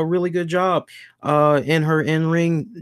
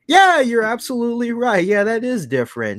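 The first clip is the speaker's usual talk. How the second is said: sarcastic; 9 semitones higher than usual. Retold or imitated. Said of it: "Are you being sarcastic".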